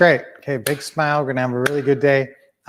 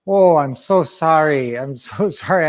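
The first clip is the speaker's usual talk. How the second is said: mock apologetic. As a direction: break bad news with mild mock regret. Doctor breaking bad news in joke.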